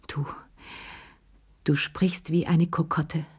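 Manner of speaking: halting, whispered stammer. A narrator's reading. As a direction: stumble over it, shaken. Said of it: "stammelte sie".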